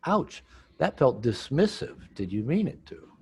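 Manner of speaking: slow demo. Shown as a demonstration.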